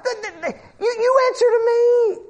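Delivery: high, firm voice of God; God rebuking. Acted. Preacher voicing God, rebuking.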